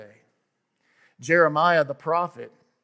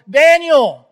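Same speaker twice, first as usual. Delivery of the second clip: high, loud, slow anguished call; desperate high shout, drawn out; anguished cry; 11 semitones higher, 15 dB louder, slower than usual. Acted. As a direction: cry his name out in anguish across the den. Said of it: "he cried out in anguish to Daniel".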